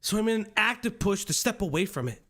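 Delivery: earnest determined anime hero read; solemn, overly earnest hero monologue; anime protagonist voice. Retold or imitated. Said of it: "Stop using the anime protagonist loser voice".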